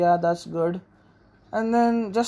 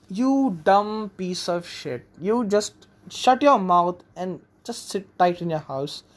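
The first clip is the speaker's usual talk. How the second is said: contemptuous rant; slower than usual. Retold or imitated. Ranting at the woman on TV.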